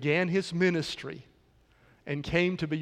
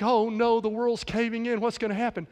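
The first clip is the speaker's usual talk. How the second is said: mock panic; 5 semitones higher than usual. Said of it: "sometimes we as Christians think".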